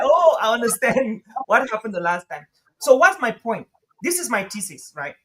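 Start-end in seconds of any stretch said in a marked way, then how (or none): 0.0-2.5 laughing through the quote. Real, not acted. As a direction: chuckle as you realize. Laughing at own irony.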